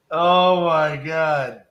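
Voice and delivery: drawn-out amazement; real slow disbelief; amazed. Real, not acted. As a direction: let it out slowly, still stunned. Recovering from the bizarre call.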